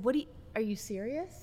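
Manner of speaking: quiet, stunned disbelief. Retelling the reply after he said "i don't love you", retelling being in shock. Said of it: "Because I was in shock".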